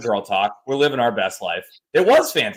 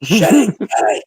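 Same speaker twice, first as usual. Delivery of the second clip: high mock yell of the cat's name; neighbor yelling; 7 semitones higher, 5 dB louder than usual. Mimicking the neighbor at his cat, high mock yell. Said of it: "He goes".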